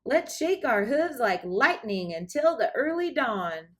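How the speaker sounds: dance caller shout. Acted. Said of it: "he said".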